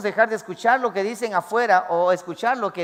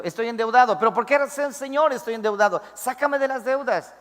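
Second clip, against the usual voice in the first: higher, pleading prayer of a debtor; imitating a worried debtor crying out to God; indebted believer praying; 5 semitones higher than usual. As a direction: beg the Lord to be freed of debt. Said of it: "Vamos a poner un ejemplo".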